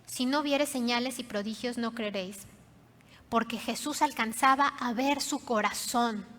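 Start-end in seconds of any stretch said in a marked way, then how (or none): 0.0-2.5 sincere statement. Shown as a demonstration. Jesus speaking to the father's heart, sincere and unscornful. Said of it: "Le está diciendo".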